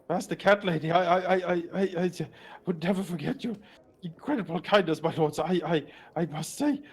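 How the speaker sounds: nervous grovelling. Acted. Cowed bandit thanking the lords for their kindness, nervously grovelling. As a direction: grovel and stumble over every thank-you.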